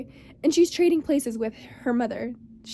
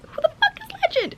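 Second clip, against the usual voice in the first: frantic. Retold or imitated. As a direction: blurt it out in a panic. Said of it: "But I'm like".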